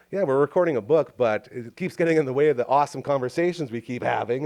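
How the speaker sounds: plain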